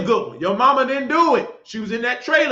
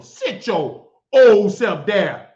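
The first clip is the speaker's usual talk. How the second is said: louder and drawn out, word by word; slow loud scold; 5 dB louder, much slower than usual. Real, not acted. Preacher orders a fifty-something man to sit down, slow loud scold. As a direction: order him down slowly and firmly.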